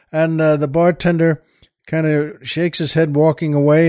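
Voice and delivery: normal talking voice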